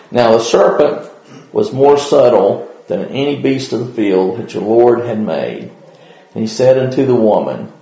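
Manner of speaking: measured King James Bible reading; formal scripture recitation. Acted. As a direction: read the old text with steady reverence. Reads Genesis chapter three aloud.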